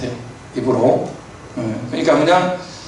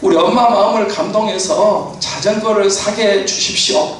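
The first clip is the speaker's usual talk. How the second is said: mock loud prayer; 3 semitones higher than usual. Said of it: "막 큰 소리로".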